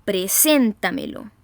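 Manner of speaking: "preséntamelo" slowly, leaning hard on SÉN; stressed syllable demo. Shown as a demonstration. Teacher giving an example of sobredrújulas, stress on SÉN in "preséntamelo". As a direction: stretch "preséntamelo", punching the SÉN. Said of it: "se acentúan en la sílaba anterior".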